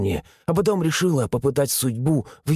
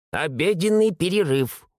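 stubborn repeat; 5 semitones higher than usual. A narrator's reading. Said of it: "упорно повторила бабка".

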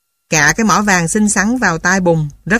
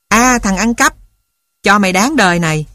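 nightmare accusation; 2 semitones higher than usual. Acted. Nightmare of candies attacking.

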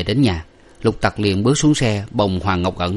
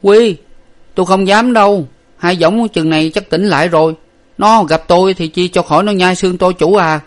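high, louder frightened servant voice; scared servant; 10 semitones higher, 7 dB louder than usual. A narrator's reading. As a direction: balk like a timid lad afraid of the brute. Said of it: "gãi đầu le lưỡi và nói rằng".

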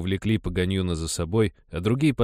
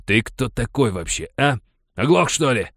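higher, louder, building hostility; rough miner rounding on the boy; hostile snarl; 5 semitones higher, 6 dB louder than usual. A narrator's reading. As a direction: go for him, menacing. Paganyun turns on boy.

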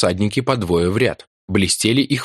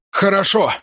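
shout; 11 semitones higher than usual. A narrator's reading. Reply while running.

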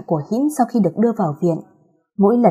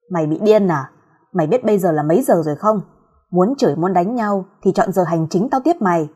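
grumbling curse. Acted. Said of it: "lầm bầm chửi".

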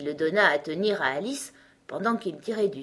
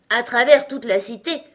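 higher, louder anxious question; trembling king; 5 semitones higher, 9 dB louder than usual. A narrator's reading. King stepping into the quarrel, trembling. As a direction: echo it in mild alarm. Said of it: "dit-il d'une voix tremblante".

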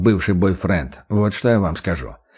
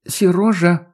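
warning call; 9 semitones higher, slower than usual. Acted.

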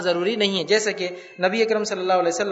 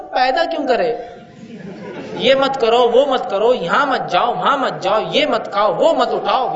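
put-on louder, exasperated kid rattling off every rule; fed-up child; 4 dB louder than usual. Child fed up with parents' endless rules, louder and exasperated. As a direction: complain like a child sick of being told no. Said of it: "تو بچہ بولتا".

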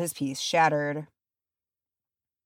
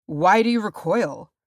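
mildly startled, hurt question; affronted surprise, lightly done; taken aback; 3 semitones higher, 4 dB louder than usual. A narrator's reading. Warrior seeing the hobbit back away, taken aback. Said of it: "taken aback".

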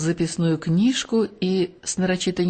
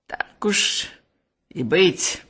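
resigned half-whisper; slower than usual. Acted. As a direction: give in under your breath. Patrick reluctantly gives in.

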